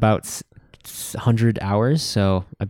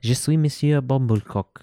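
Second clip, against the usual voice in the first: mock French; 2 semitones higher than usual. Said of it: "call yourself in France".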